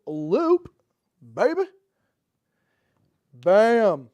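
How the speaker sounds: loud triumphant bam; triumphant shout. Real, not acted. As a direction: slam it down in triumph. Winning move.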